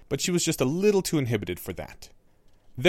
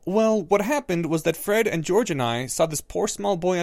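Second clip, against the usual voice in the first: Harry; 7 semitones higher, 4 dB louder than usual. A narrator's reading. Harry explaining.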